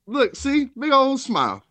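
high-pitched mock delight; sarcastic cheer. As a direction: squeal it with fake joy. Sarcastic joy at Sean.

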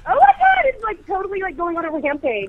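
phobic panic. Real, not acted. Moth panic.

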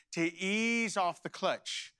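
slow, stretched-out "ease"; patient coaching. Retold or imitated. Father teaches son stick shift, patient and slow. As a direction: draw it out like easing off a pedal.

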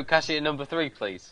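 imitating a queue announcer, dropping away on please; recorded cashier-call voice, lightly done; automated cashier announcement. Correcting a colleague with the post office call, automated announcement. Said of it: "I thought it was an automated voice".

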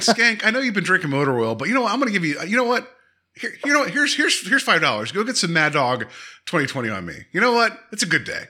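high, generous mock cheer; lightly voiced jolly man handing out cash; half-hearted imitation of a good mood; upbeat. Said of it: "so upbeat".

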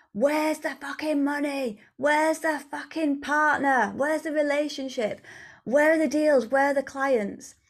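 demanding to know where it all is; impatient demand. Acted. Woman voicing her own thoughts about money and partners, impatient demand.

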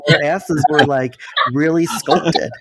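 ordinary delivery

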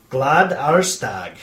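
"glad årsdag" said slowly in Swedish; "glad årsdag" with a careful Swedish accent, drawn out; Swedish pronunciation. Shown as a demonstration. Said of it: "Their little accent there".

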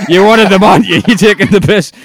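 hammed-up paranoid accusation, near shouting; mock accusing. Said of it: "And like".

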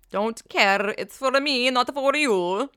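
sassy, slow and pointed; defiant. Real, not acted. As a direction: throw it back at them. Defiant about boob job.

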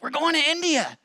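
high, loud excited announcement; mock-grand declaration of the mission; bold proclamation. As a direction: proclaim it with naive gusto.

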